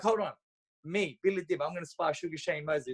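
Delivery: high-pitched, awed double take; can't believe who he's about to spar; stunned disbelief. Retold or imitated. Retold disbelief at sparring legend.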